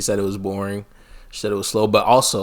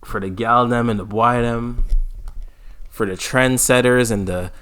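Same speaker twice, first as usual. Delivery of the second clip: Jakes; 2 semitones higher, 5 dB louder than usual. Retold or imitated. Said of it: "He'd be like".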